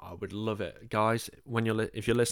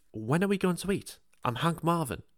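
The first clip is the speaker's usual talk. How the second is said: higher, broad northern English voice; northern accent, higher pitch; 7 semitones higher than usual. Retold or imitated. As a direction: say it like a northerner asking about dinner. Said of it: "I said that incredibly northern".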